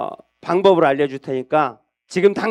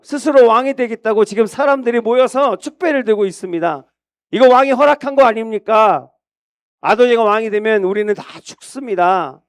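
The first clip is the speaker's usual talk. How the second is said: pleading; 4 semitones higher than usual. Acted. Bathsheba pleads with King David, high and pressing. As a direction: beg the king in alarm.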